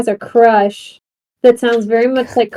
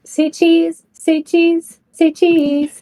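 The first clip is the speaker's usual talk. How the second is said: camera voice; 6 semitones higher, much slower than usual. Pretend. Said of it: "I can play all the greatest hits, like".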